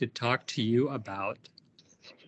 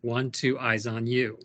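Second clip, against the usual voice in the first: classroom call-out; 2 semitones lower than usual. Shown as a demonstration. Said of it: "This works in the classroom".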